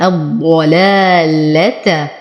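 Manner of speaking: الضلالة with a heavy ض and light لامات; slow tajweed demo. Shown as a demonstration. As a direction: keep the لامات thin after the heavy ض. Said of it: "انتبه لتخليص اللامات من تفخيم الضاد". (ترقيق اللامات بعد الضاد)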